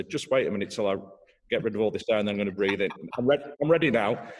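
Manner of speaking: rushed, breathless mock plea to the conductor; a player begging the conductor for time, hurried and comic; exaggerated flustered player. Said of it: "I'm really exaggerating something there".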